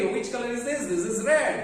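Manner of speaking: lightly voiced on-screen teacher, punching the answer. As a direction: imitate a kids' screen presenter, answering straight away. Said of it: "screen पर ही आ रहा है". (स्क्रीन वाली आवाज़ की हल्की नकल)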